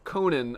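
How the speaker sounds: Conan with a short "nin" at the end. Shown as a demonstration. Reading out the correct pronunciation, Conan ending in "nin". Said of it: "It's pronounced".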